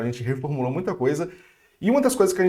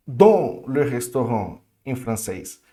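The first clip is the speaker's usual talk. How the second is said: French phrase said slowly; slow mock-French question; student's French; 4 semitones lower, slower than usual. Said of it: "por que que eu falo no restaurante".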